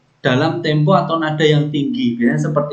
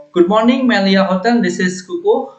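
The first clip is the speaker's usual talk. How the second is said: bright, higher hotel operator answering the line; hotel phone greeting; 3 semitones higher than usual. Shown as a demonstration. Trainer demonstrates greeting a hotel caller, cheerful operator voice. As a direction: greet the caller like front desk staff. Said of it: "contohnya seperti ini".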